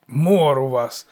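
slow, loud, sullen mockery; mock the wail back in your own pitch; dour, drawn-out parroting; gloomy mimicking. A narrator's reading. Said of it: "похмуро передражнило божество".

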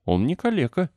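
put-on girl shouting to defend the boy; cried out. A narrator's reading. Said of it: "выкрикнула и Мэри".

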